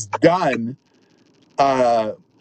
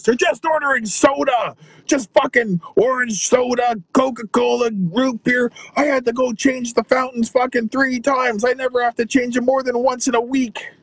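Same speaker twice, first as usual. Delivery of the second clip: lightly voiced exasperated friend; 8 semitones higher than usual. Bar owner complaining about soda.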